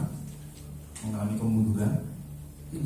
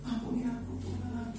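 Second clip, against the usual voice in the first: higher, softer, confessing through tears; a man confessing tearfully to God, higher and soft; mock tearful prayer; 6 semitones higher, 9 dB quieter than usual. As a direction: plead quietly, like a sinner crying to God. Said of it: "dia akan nangis".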